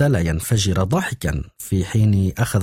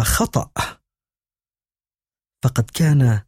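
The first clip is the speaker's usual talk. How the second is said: stammering; 2 semitones higher than usual. A narrator's reading. Deborah stammers nervously to Esther on the phone. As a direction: fumble for words, caught off guard. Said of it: "وقالت بتلعثم".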